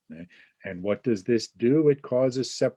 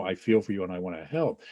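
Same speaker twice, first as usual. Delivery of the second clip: sympathetic voice; 2 semitones lower, faster than usual. Retold or imitated. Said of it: "It's an act of sympathy".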